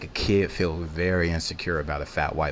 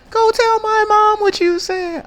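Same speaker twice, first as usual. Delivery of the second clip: put-on much higher, louder, slower girl voice; mocking girl threat, slower; 13 dB louder than usual. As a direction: drag it out like a daring girl. Girls threatening him.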